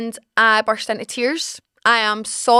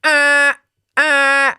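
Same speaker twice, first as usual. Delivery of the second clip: droning alarm buzz; imitated alarm; 3 semitones higher, 4 dB louder than usual. Storyteller mimics the morning alarm going off, even droning buzz. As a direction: blare two even buzzer notes. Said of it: "the same noise I was talking about".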